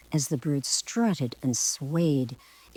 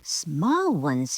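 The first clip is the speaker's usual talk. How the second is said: a hint of an affronted peacock squawk. Peacock scoffing at the girl's request, mild squawk. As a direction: repeat it in mild offended disbelief. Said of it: "he squawked".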